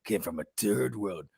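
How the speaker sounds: slow, low imitation of dad; dad's cadence. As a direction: draw it out like a lecturing father. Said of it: "That's, like, his cadence".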